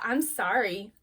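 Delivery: tossed-off, unmeant sorry; insincere apology. Shown as a demonstration. Child told to apologize to a sibling, insincere. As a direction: apologize without meaning it. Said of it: "that doesn't count".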